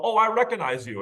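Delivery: high, airy mock old lady; a chirpy imitation of a naive grandmother. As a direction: toss it off like a clueless granny. Mocking grandmother's blunder.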